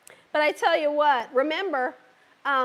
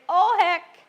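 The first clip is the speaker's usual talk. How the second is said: mock panic; 3 semitones higher than usual. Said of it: "you think".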